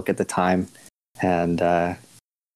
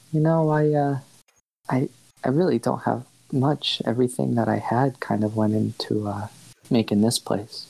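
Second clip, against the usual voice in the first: higher at first, hesitant; lightly voiced shopkeeper placating a robber; meek shopkeeper Ash; 4 semitones higher than usual.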